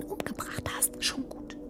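urgent hushed whispering. Acted. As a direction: whisper so the friend won't hear. Hiding the murder from the friend. (hastiges Flüstern)

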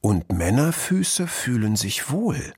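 slow, careful beginner's reading; measured word-by-word reading. A narrator's reading. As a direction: decipher a poster slogan aloud. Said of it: "las Kluge Pfote".

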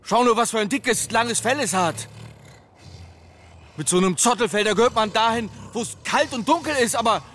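loud exasperated rant; indignant. Acted. Father arguing heatedly.

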